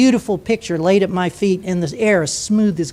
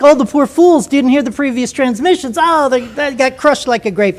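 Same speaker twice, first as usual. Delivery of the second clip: gasping pity; 4 semitones higher than usual. Retold or imitated. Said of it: "hear a collective gasp on Freak".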